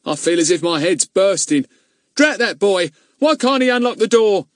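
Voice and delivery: high, loud exasperated grumble; irritated complaint. Acted. Companion grumbling in the hot boiler house.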